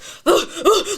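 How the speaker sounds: loud, high acted huff; mad huffing gasp. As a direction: huff angrily while pretending to work. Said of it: "So here I am, mad".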